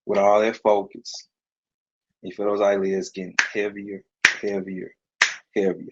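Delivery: steady, coaxing hypnotist voice; hypnotic induction. Acted. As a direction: talk them under like a stage hypnotist.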